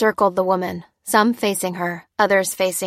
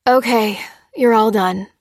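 matter-of-fact; 2 semitones higher, 6 dB louder than usual. A narrator's reading. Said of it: "stated the doctor".

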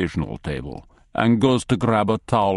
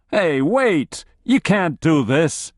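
alarmed protest; 8 semitones higher than usual. Acted. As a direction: cry out against the arrest. Analyst resisting handcuffs.

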